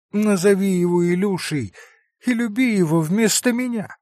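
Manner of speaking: put-on a boy comforting his father; dying child. Narrator voices dying child.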